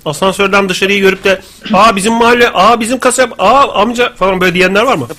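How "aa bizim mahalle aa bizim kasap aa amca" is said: higher-pitched mock astonishment; mock "oh look!" excitement, pitched up; surprised recognition. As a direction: act out spotting familiar places and people. Imagined viewers recognising their street.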